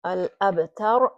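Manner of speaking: al-abtar slowly, syllable by syllable; slow careful reading. Shown as a demonstration. Teacher reading al-abtar slowly for the class. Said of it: "the next one we have is".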